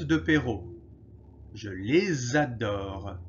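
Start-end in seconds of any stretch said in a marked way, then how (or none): 1.5-3.2 "les adore" linked as "lez-adore", slowly; slow, carefully joined "Je les adore" with a z sound; clear liaison. Shown as a demonstration. Teacher modelling liaison for students, slow and careful. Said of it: "Il y a la liaison".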